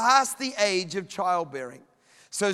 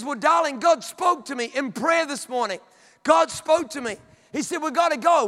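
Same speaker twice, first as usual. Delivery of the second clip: higher-pitched acted insistence; insistent husband; 4 semitones higher than usual. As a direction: play a husband earnestly urging his wife. Abraham insists God told him.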